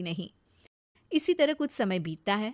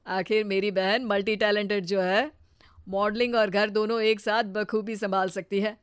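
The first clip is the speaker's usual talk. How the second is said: lightly voiced proud brother; hint of a brother's voice, full of praise; admiring brother. Brother praises sister's cooking and talents at dinner, admiring.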